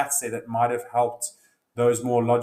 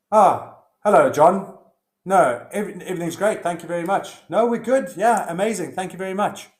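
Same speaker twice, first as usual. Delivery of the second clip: much higher, louder, bright and courteous; polite phone voice; 7 semitones higher, 7 dB louder than usual. Acted. Husband answering the phone to John, suddenly sweetly polite. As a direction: switch to a cheery polite phone manner. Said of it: "got calm and talked in a normal voice".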